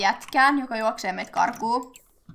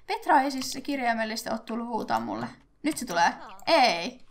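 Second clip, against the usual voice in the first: usual speaking voice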